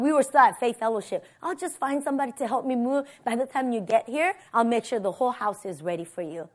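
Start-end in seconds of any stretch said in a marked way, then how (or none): 1.4-6.5 soft, quick, easy promise; casual reassurance. Retold or imitated. Husband promising wife a ready house, casual reassurance.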